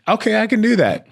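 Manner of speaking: lightly imitating a sweet Southern Belle accent, high and bright. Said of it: "she's Southern Belle, she got that accent".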